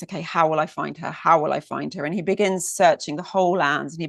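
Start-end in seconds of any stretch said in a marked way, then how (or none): 0.0-2.1 panicked thought. Acted. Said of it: "goes into a panic".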